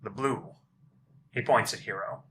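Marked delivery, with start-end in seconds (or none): 0.0-0.5 loud, booming lumbering giant; dopey cartoon bellow. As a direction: bellow it like a big friendly giant. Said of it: "He says".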